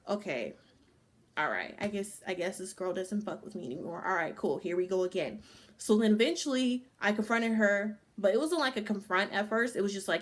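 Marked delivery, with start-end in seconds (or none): 0.1-5.4 resigned sigh. Retold or imitated. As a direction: shrug it off, defeated. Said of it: "it was just fucking crazy".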